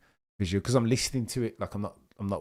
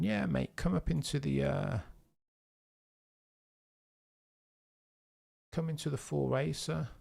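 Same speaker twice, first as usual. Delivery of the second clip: mock Aussie bloke, pitched higher, chummy and matey; Aussie driver impression; 4 semitones higher than usual. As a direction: ham up a cheeky Australian driver welcoming the rookie. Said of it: "Russell Crowe".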